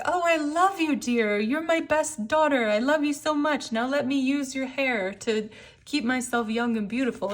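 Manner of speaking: high, sugary, fake-loving mother voice; Mother Gothel. Mother Gothel sweet-talking her daughter, in a high fake-loving coo. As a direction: coo it sweetly, hiding menace. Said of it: "Mother Gothel ... where she's like".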